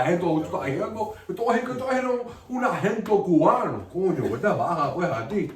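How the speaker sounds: hammed-up Cuban Spanish; Cuban accent. Comic showing off his quality Cuban accent. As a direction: play a boastful Cuban with dropped consonants. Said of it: "default to just doing Cuban accents".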